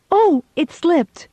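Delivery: gasp, then high, slow mock-innocent wail; hammed-up innocent excuse; fake innocence. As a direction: play the helpless klutz, drawn out. Feigning clumsiness after dropping pitcher.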